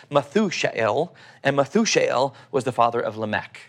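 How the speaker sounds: calm, measured Bible reading; scripture reading. Acted. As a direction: read the passage like a sermon text. Reads Genesis passage aloud.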